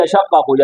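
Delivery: यशक्कू quick, with a short single sh; wrong undoubled reading. Shown as a demonstration. Teacher imitates how some people misread, quick undoubled reading. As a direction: hurry through यशक्कू without holding the sh. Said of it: "कुछ लोग इसको पढ़ते हैं".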